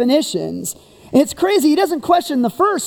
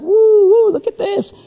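high, loud impressed hoots; excited crowd; 9 semitones higher, 4 dB louder than usual. Retold or imitated. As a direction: hoot like a thrilled crowd, then drop to awe. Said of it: "The crowd's like".

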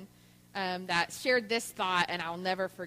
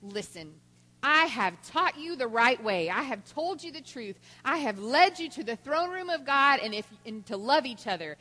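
emphatic, preachy mother's lecture, louder in bursts; mock frustrated scolding; 4 semitones higher, 6 dB louder than usual. Frustrated mother lectures fighting children, acted righteous exasperation. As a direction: lay down the law, imitating a fed-up mom. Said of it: "she was so frustrated".

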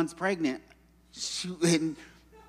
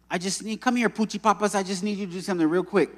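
mildly hurried colleague impression; imitating Becky; 4 semitones higher, 3 dB louder, much faster than usual. Coworker asking a favor real quick, imitated breezy urgency. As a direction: rattle off a request like an eager coworker.

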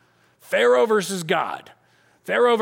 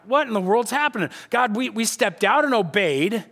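bewildered protest; 4 semitones higher than usual. Acted. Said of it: "stuck in this scenario where they're like".

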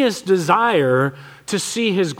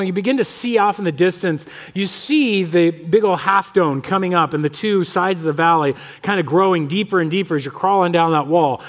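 normal talking voice

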